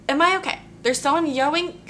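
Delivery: laughing at her own tongue slips. Real, not acted. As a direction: talk through the giggles. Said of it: "I'm crying".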